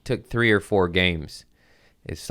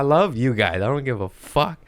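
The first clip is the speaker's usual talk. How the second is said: mock wild rant; 9 semitones higher than usual. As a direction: play the unhinged thrower, half joking. Mock rant at the opposing team.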